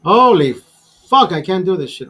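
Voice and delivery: loud, exasperated swear that fades on the rest; real frustration breaking loose; frustrated outburst. Real, not acted. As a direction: blurt it out, fed up with the task. Frustrated outburst while filming.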